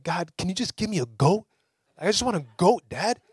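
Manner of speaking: mock a kid begging dad for a goat; whiny kid.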